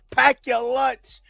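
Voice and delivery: mock the other guy's taunt up high. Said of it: "he said".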